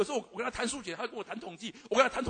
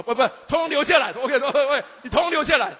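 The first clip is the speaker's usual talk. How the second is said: mock shout; 4 semitones higher, 14 dB louder than usual. Jokingly demands the condoms, shouting.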